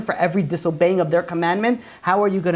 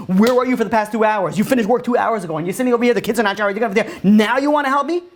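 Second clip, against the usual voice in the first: annoyed wife; 4 semitones higher than usual. Retold or imitated. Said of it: "she goes, like".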